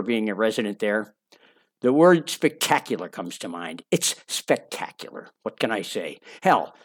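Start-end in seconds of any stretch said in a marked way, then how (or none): 3.9-5.3 whispered. Real, not acted. Savoring the word spectacular.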